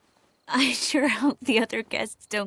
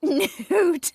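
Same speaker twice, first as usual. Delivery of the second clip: gleeful reveal; 9 semitones higher, 6 dB louder than usual. Acted. Tipsy reveal of the nude statues.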